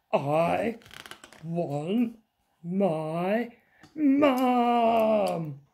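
put-on whiny child, Mum drawn out high and loud; wailing little princess. A narrator's reading. Princess upset over her soggy picture, wailing. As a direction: wail for your mum word by word.

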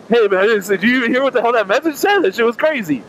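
imitating excited gym guy.

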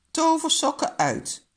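high, loud order; angry command. A narrator's reading. Angry papa demands the magic socks, sharp command. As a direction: order it with exasperation. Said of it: "Nu is papa echt boos".

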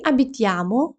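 abitiamo with the stress moved onto -amo; stress on the ending. Shown as a demonstration. Teacher showing learners the stress shift, abitiamo stressed on -amo. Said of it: "наголос перейшов на закінчення".

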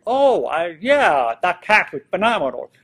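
acted burst of keen agreement; enthusiastic reply. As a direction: chime in keenly, as if just catching on. Acted joining in on conversation.

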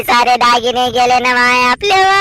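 sobbing cry that breaks into a shout; robbed woman sobbing it out to her neighbour, crying shout. Acted. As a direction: wail it out through tears. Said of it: "काहून बोंबलून राहिली?".

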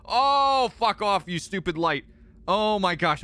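high, loud exasperated yell at the game; cursing the game's flashlight in a loud, high burst; frustrated outburst. Real, not acted. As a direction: snap at the stupid light.

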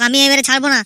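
rising to a loud warning; angry threat. Acted. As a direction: build to a loud threat, fist ready. Laltu loses patience, threatens.

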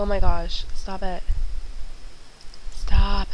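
loud, exasperated cry of stop; frustrated. Real, not acted. Yelling at her frozen game, real frustration. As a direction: snap at the glitching game.

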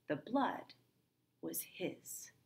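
dropping to a breathless whisper on was his; hushed confession. Acted. Cyrano confessing to Roxanne, hushed fading voice. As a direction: let the line fade to nothing.

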